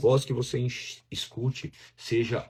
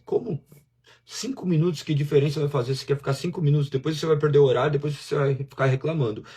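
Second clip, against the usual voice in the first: nagging inner voice; 4 semitones higher, 4 dB louder, faster than usual. Acted. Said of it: "E outra voz".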